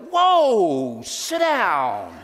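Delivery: high, loud warning with a laugh; telling an excited man to calm down; alarmed shout. Retold or imitated. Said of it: "everybody's like".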